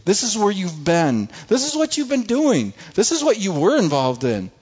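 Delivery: hammed-up taunting devil; taunting Satan. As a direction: tease them with their own past. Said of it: "Satan pulls out this sixty-inch T V and says".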